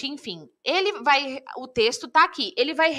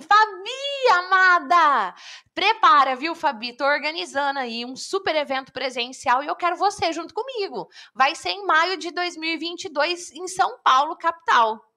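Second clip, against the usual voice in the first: warm, connected message; 3 semitones higher than usual. Shown as a demonstration. Inviting student Fabi to the event, excited and affectionate. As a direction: sound thrilled to invite a friend. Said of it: "Eu tenho que escrever assim".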